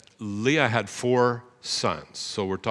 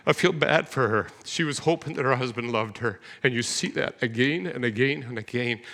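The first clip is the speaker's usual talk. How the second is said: emotional. Real, not acted. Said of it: "I get emotional about this".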